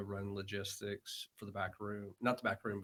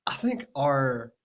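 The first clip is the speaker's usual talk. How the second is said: higher, louder, breaking into laughter; laughing retelling; 5 semitones higher, 9 dB louder than usual. Retold or imitated. Worker sends old lady to the pharmacy, laughing. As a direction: try to get the polite reply out through laughter.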